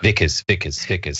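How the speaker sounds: exaggerated South African accent. Shown as a demonstration. Showing a co-host the accent, in South African accent. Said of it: "That's actually my South".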